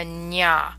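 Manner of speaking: "ña" as one syllable, nyah; Spanish ñ sound. Shown as a demonstration. Teacher comparing to Spanish, ñ sound. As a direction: palatal ny gliding into an open "ña". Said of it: "like the ñ of Spanish".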